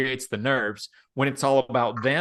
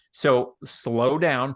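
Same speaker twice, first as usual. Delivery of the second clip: slow demo; much slower than usual. Shown as a demonstration. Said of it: "talk slower and lower than you think".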